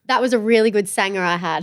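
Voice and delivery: natural Aussie twang; Australian accent. Shown as a demonstration. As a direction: say it as a local Australian would. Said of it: "This is my Australian accent".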